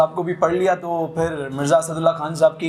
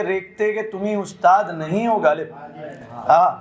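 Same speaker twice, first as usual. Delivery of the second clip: ghazal recitation. Acted. Poet reciting a ghazal to the mushaira audience, lilting recital. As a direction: savour each line for the gathering.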